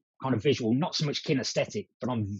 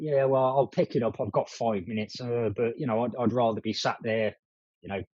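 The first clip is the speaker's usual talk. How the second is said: mock nonchalant; 3 semitones lower than usual. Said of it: "be kind of nonchalant".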